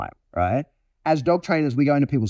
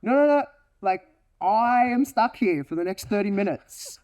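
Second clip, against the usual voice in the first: higher-pitched dog protest; protesting Malinois; 6 semitones higher than usual. Acted. Malinois left aroused after guest leaves, higher protesting voice. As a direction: plead in a raised dog voice. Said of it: "And my Malinois like".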